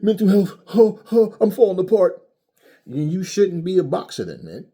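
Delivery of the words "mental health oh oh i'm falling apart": mock melodrama. Mocking a fighter's breakdown.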